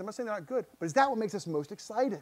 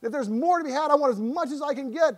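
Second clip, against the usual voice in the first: eager longing; 7 semitones higher, 4 dB louder than usual. Pretend.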